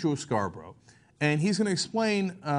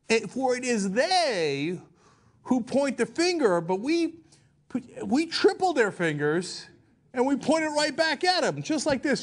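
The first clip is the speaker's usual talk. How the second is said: Sarah Palin impression; 5 semitones higher than usual. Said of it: "a voice that is not Sarah Palin's".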